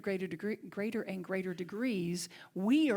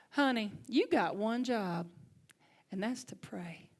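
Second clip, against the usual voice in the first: slow Alabama drawl, imitating mentor; thicker Southern accent. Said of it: "thicker Southern accent than me".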